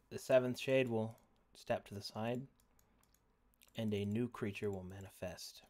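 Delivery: dramatic narration. Acted. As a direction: set the scene with gravity. GM narrating scene.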